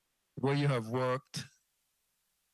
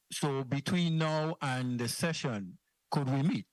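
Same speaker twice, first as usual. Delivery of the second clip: muffled. Real, not acted. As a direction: voice muffled, as if through a hand. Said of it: "it sound kind of muffled".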